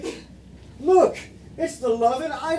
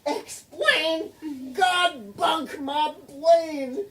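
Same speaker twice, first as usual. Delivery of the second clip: hammed-up lady voice; 3 semitones higher, slower than usual. The speaker playing Margaret Gladfly.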